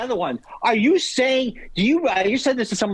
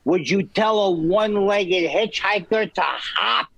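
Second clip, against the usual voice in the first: slow, deliberate joke delivery; old-school comic timing; comedian's setup; slower than usual. Retold or imitated. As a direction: lean into the punchline slowly. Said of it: "He also said".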